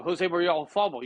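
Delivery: put-on a light Spanish accent on the name. Telling a golf story about the Spanish player, Spanish accent. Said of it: "Good accent".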